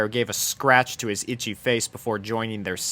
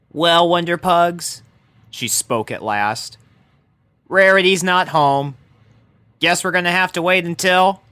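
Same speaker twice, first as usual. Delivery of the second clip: tomboy pony, lightly resigned; resigned Rainbow; 6 semitones higher, 4 dB louder than usual. Acted. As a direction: settle down to wait, giving up. Rainbow voiced to the pugs.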